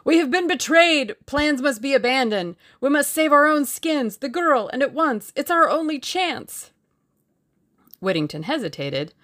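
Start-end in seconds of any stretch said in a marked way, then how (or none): 0.0-6.7 loud, high-pitched urgent cries; frantic, insistent warning; panicked alarm. A narrator's reading. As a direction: raise the alarm as if all is lost. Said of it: "created many unnecessary panics".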